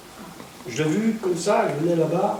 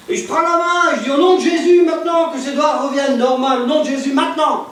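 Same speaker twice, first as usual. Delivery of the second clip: prière de guérison proclamée; 5 semitones higher, 3 dB louder than usual. Retold or imitated.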